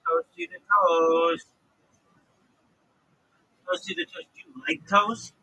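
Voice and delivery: squeaky teasing call; high playful sing-song; mock high call. Real, not acted. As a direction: tease the silent guest in a high voice. Teasing call to silent guest.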